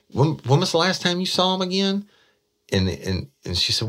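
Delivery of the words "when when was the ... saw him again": high, loud mock disbelief; mock incredulity. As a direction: pounce on her answer in disbelief. Detective feigns disbelief.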